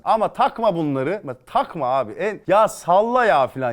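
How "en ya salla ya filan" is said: mock careless advice. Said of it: "ağzının ortasına vurası gelir".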